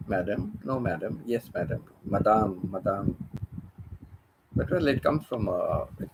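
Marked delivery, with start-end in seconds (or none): 0.1-3.1 Filipino accent. Shown as a demonstration. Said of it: "Like madam".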